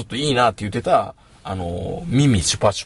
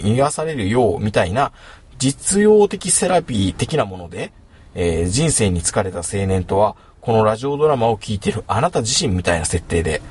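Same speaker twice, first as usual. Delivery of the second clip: put-on Kansai accent. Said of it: "ワイって言ってるので関西弁で読みますね".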